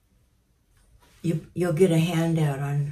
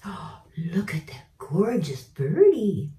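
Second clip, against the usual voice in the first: admiring coo; 3 semitones higher, 4 dB louder than usual. Real, not acted. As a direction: marvel at the bird sweetly. Admiring the bird.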